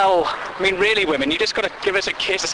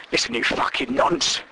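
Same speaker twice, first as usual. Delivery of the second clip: seventies cop persona. Retold or imitated. Deirdre as a cop tells the mate off. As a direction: lay down the law like an old copper. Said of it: "nineteen seventies cop persona".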